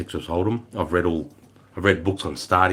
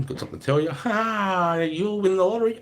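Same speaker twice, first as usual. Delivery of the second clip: spring it on them in a raised put-on voice; mock announcement; 12 semitones higher than usual. Officer telling troops on the plane, mock announcement.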